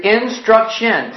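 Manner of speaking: "Instruction" slowly, in three distinct syllables; counting syllables. Shown as a demonstration. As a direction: stretch "Instruction" to show three beats. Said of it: "sounds to me like it's got three".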